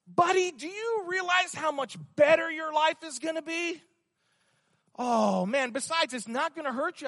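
the enemy luring Wayne with promises, high and eager; enticing tempter. Acted. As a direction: sell the temptation with a grin. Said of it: "This is always the enticement here".

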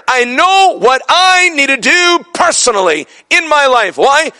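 urgent, high-pitched declaration; impassioned preaching. Real, not acted. Preacher declaring devotion to God, impassioned.

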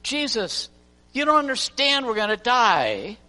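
high, loud frantic cries to a sleeping man; panicked shout. Acted. Disciples waking Jesus in the sinking boat, panicked shouting. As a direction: yell in panic, then drag out the plea.

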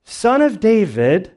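high, drawn-out cry for help. Acted. Blind man calls to Jesus, crying out. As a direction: call out slowly, pitched high. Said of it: "he's crying out".

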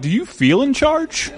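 slow villain voice, swooping up at the end; drawn-out mocking villain question; Bane. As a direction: taunt slowly as the cool movie villain. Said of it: "this little voice in the back of my head".

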